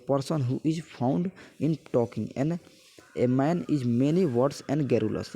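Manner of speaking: slow word-by-word reading of a definition; slow dictation. Acted. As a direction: read it out slowly so students can copy it down.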